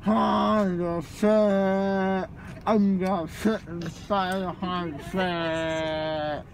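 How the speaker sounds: slurred, drowsy drugged voice; groggy, loopy and slow. Real, not acted. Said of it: "I'm high".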